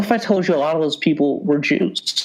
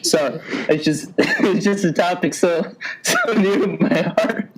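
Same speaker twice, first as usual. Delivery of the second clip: laughing through mock sincerity. Real, not acted. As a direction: fake earnest words breaking into giggles.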